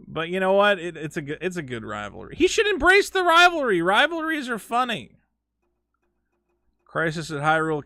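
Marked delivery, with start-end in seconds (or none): 2.4-5.2 playful tease. Real, not acted. Teasing about rival.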